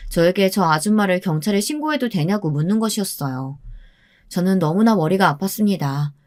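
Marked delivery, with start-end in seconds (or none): none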